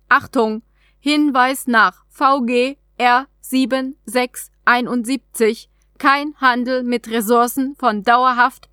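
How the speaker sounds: lightly voiced alien vending machine; alien trade capsule. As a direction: read it like a polite automated terminal.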